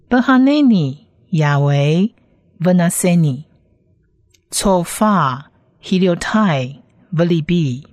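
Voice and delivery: Hebrew in separate words, pauses between; Hebrew read-aloud. Shown as a demonstration. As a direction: model each Hebrew word for learners. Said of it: "先来把整句的原文念几次". (逐词停顿示范朗读希伯来文)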